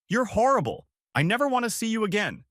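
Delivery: sister screaming she never wants to see them again, furious shout; screamed insult. Acted. Hurl it at full volume.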